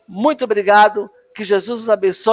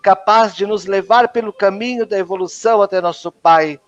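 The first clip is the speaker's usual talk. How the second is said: measured, solemn creed recitation; recited creed. Acted. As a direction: recite each belief as a formal prayer. Recita o credo da Umbanda. (credo recitado com solenidade)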